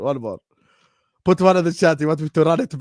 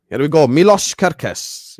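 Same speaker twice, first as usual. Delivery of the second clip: catchphrase call; 3 semitones higher, 7 dB louder than usual. Retold or imitated. Mimicking transfer catchphrase.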